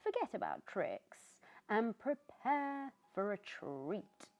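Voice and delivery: high, bright-hearted pumpkin voice; a cheerful pumpkin greeting everyone; cheery pumpkin. Acted. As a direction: play a jolly friendly pumpkin. Pumpkin excited.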